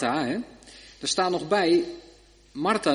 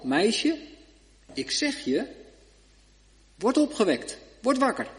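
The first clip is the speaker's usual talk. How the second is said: higher commanding call to wake; gebiedend bevel; 7 semitones higher than usual. Acted. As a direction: rouse the girl from death. Jezus wekt het meisje op. (Jezus beveelt het meisje hoog en gebiedend wakker te worden)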